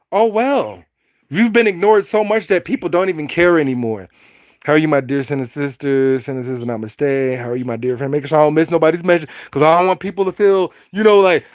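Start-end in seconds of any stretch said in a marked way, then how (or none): 4.7-8.1 gentle greeting. Real, not acted. Greeting chat members.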